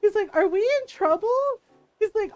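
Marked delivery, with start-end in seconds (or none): 0.4-1.3 put-on high, loud worried kid voice; mock frightened little brother; scared kid brother. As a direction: plead like a kid who thinks he's in trouble.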